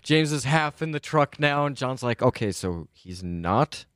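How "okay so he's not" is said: slow, puzzled in-character question; hesitant John in character. Acted. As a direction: drag it out, then lift into doubt. John voiced in game, hesitant realisation.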